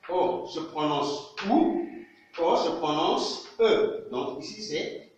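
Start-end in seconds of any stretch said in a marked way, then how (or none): 0.1-1.9 "OU" stretched out slowly, as "oo"; teaching pronunciation. Shown as a demonstration. Teacher showing the class how O sounds as OU. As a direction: say "OU" long and slow, like "oo". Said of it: "trois prononciations différentes".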